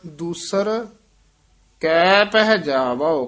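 ਕੈ ਪਹਿ stretched with long vowels; drawn out. Shown as a demonstration. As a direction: lengthen ਕੈ and ਪਹਿ. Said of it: "ਲੰਮੀ ਆਵਾਜ਼ ਨਾਲ ਉਚਾਰਨ".

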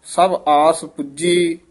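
brief halt after ਪੁੱਜੀ; recite, then pause lightly on ਪੁੱਜੀ; ਪੁੱਜੀ followed by a short break; slight pause after. Shown as a demonstration. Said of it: "ਇੱਥੇ ਠਮਕ".

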